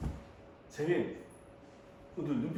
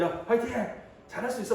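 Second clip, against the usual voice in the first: raised-pitch pep talk; retold encouragement; 6 semitones higher than usual. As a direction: cheer a student on, pitched up. (높은 톤으로 격려 재연)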